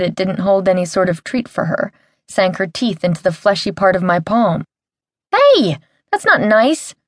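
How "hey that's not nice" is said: high, slow pained squeal. Acted. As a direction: squeal it out, stung. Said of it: "I squealed in pain".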